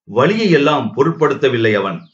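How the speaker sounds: plain reading voice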